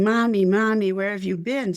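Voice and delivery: mildly yelled imitation of a little boy; imitated child's yell. Boy running to his mommy, retold mild yell. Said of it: "he came running, yelling".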